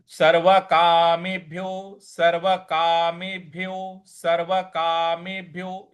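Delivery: सर्वकामेभ्यो with भ्य clearly sounded; careful recitation. Shown as a demonstration. Teacher drilling the class on सर्वकामेभ्यो. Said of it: "इस प्रकार से".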